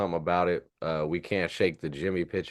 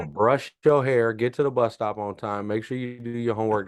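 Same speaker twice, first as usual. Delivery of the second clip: nagging parent voice; 4 semitones higher, 3 dB louder than usual. Retold or imitated. Mocking Lowry as a schoolkid.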